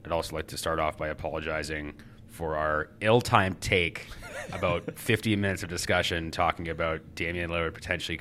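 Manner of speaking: stuffed-up nasal voice. Real, not acted. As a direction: talk through a blocked nose. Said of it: "sorry to our loyal listeners for my nasally voice".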